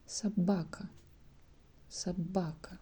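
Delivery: Собака with the first O said as a short A; Собака sounded sabaka; unstressed O as A. Shown as a demonstration. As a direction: reduce the O in Собака to a. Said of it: "O is not stressed".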